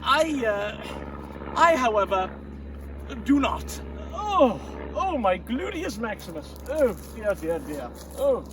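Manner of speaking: loud groaning in pain. Acted. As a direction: wince through a sore bottom. In pain after sitting.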